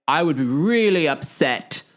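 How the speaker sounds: put-on a rough try at Maura's accent, stretching really; imitating Maura's accent, half-joking; mock Maura accent, badly faked. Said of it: "I can't do her accent".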